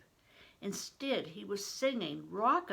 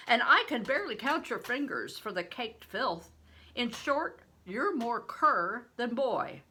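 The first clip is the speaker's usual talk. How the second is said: big stranger; 4 semitones higher, 7 dB louder than usual. A narrator's reading. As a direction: play the huge man, loud and hearty.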